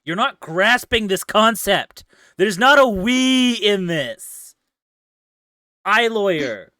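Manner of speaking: high, loud indignant rant. Acted. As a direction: scold them, outraged. Mock-arguing about being lawyer.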